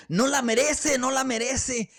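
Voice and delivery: high, loud shout from the angry crowd. Retold or imitated. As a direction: yell it up at the king. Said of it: "la gente empieza a gritar".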